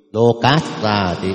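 "cát" closed by a consonant before "ra thì"; linked pronunciation. Shown as a demonstration. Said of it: "không phải ca, à, cát".

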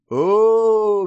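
loud, drawn-out dreamy "oh"; a long, loud rapturous exclamation. A narrator's reading. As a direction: sigh it out like picturing a sweet dream. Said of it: "мечтательно закатил я глаза".

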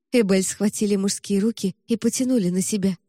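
ordinary delivery, nothing marked

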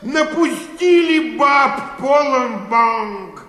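exasperated shout. Acted. Clerk fed up with the women, shouting in despair. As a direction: vent your fury at the whole bank.

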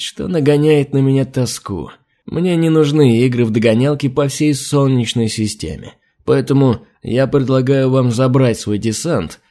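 mocking reptile, unhurried; sneering lizard envoy; lizard man. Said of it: "Голос рептилии звучал подчёркнуто издевательски".

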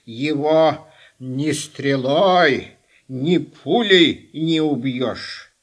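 low, slow, creaky crone; old witch voice. Acted. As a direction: drawl it out like Baba Yaga. Baba Yaga warns about Koschei.

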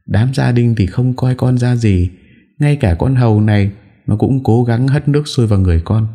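high, tearful whine of grievance; wife tearfully complaining to her in-laws; whimpering complaint. A narrator's reading. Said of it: "An Nhã mếu máo".

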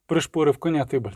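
ordinary delivery

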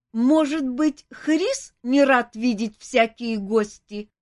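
high, slow, odd-voiced dragon lady; a friendly dragon eager for guests; curious dragon.

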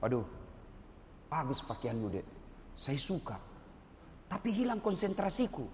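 soft, low-pitched polite dismissal; mild lecturer sparing a student's feelings; gentle, not harsh. Acted. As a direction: let them down gently, keeping the voice down. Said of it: "Tapi saya tidak kasar ngomong".

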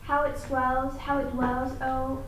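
measured, rhythmic recitation of a poem; poem reading. Acted. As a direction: read it aloud, letting the repeated words ring. Student reads Poe's Bells aloud.

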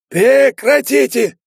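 high, slow, desperate yell to stop; frantic shout. A narrator's reading. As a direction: shriek it out, high and loud. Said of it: "вырвался Кичендаш". (высокий отчаянный крик)

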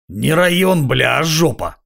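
rasping bum's complaint; hoarse wheeze. A narrator's reading. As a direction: croak it out like a drunk tramp. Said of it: "прохрипел бомж".

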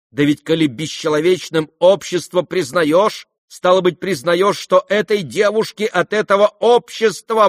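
loud, high, scolding tirade of an outraged lady; indignant matron. Acted. Outraged mother scolds the young guests, furious tirade. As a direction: rage at the mocking youths.

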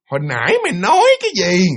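lightly voiced spirit, a hint of the uncanny; shrill ghost voice. Ghost whispering behind a man's head, lightly imitated shrill voice. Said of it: "một cái giọng nó nghe mà nó the thé".

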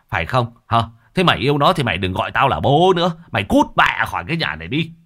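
father disowns his daughter in rising anger; scolding father. Acted. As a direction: scold her, building to a fast furious end. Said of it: "Lão chỉ mặt con gái mà quát".

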